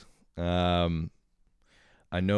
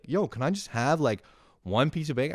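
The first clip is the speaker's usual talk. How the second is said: imitating sister; 9 semitones higher, 3 dB louder than usual. Sister begging for bacon.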